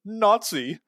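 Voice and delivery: high, slow, dragged-out commenter voice; high drawn-out mock cry of "Nazi". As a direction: sneer it like an online accuser. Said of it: "ready for the comments".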